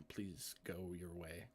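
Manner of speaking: whispering. Acted. Servant NPC ushering guests.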